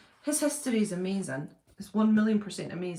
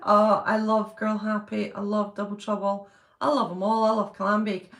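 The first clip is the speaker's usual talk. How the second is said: enthusiastic fan; 4 dB louder than usual. Real, not acted. Enthusiastic declarations of love for films.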